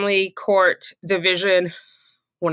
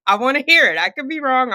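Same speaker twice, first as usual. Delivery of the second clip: laughing; 6 semitones higher, 3 dB louder, faster than usual. Real, not acted.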